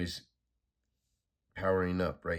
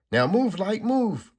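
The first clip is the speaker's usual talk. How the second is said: high, loud yell to go; urgent shout; 12 semitones higher, 8 dB louder, slower than usual. Acted. Supergirl yells at Doctor Light to move, loud shout. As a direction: scream the order over the chaos.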